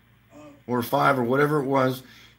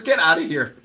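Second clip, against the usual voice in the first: laughing dismissal; 3 semitones higher than usual. Retold or imitated. Pilot laughing at the toy-plane prank, amused. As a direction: brush the joke away with a laugh.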